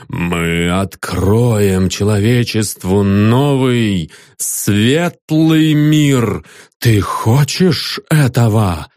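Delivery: solemn messenger. Acted. The messenger proclaims.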